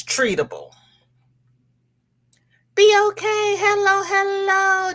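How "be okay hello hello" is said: high excited greeting. Real, not acted. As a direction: lift the voice high for the hellos. Greeting a viewer.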